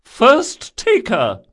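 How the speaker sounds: high, loud, slow call; shouting. A narrator's reading. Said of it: "shouted the Lashani Viscountess".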